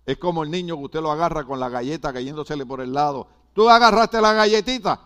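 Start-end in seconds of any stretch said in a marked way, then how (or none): 3.5-5.0 accusing parent. Retold or imitated. Parent catching child with cookie.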